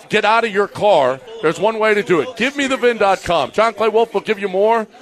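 brisk host-read sponsor spot; quick live radio ad read. Acted. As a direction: sell the car-buying site like a radio ad.

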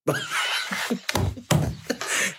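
high airy burst of laughter; real laugh breaking out. Real, not acted. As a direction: crack up at the comment. Laughing at chat comment.

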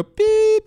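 one sharp, very high, loud beep; ping the fire button with one high beep. Retold or imitated. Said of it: "That's the sound the button hits".

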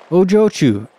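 exclaiming to get her attention; exclaimed. A narrator's reading. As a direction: call out to her in concern. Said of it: "he exclaimed".

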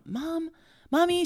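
put-on high, childlike call of Mommy; imitating a small daughter calling her mom; little girl's voice. Mother imitating her young daughter in a high child voice. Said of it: "she said".

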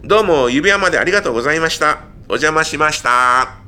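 perky reporter wrapping up. Acted. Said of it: "リポーター役の一人が". (テレビリポーター風の締め)

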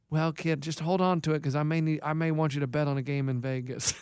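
low, soft, deadpan coach impression; Keith. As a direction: imitate an older friend's low, quiet phone voice. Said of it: "He goes".

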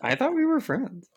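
high, pouty mock-wounded voice; feigned heartbreak; mock hurt. Mock hurt at Russians' betrayal.

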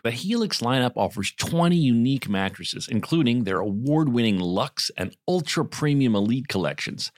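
scripted podcast sponsor read. Acted. Host describing stress for a therapy sponsor, measured ad read. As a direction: deliver it to listeners as prepared copy.

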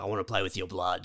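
creepy killer. Retold or imitated. Creepy customer in line.

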